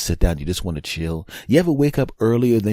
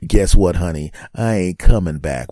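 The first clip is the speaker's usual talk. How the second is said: taunting; 7 dB louder than usual. Acted. Taunting wife while invisible.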